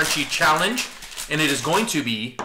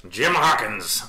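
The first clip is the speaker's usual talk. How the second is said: lightly voiced pirate, hint of arr; 4 dB louder, much slower than usual. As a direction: say it like a mild pirate. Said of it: "here comes the pirate voice".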